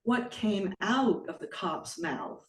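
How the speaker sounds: measured poetry-reading voice, phrase by phrase; poem reading. Acted. Poet reads her poem Deployed to an audience, measured poetic delivery. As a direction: read the poem deliberately, pausing between short phrases.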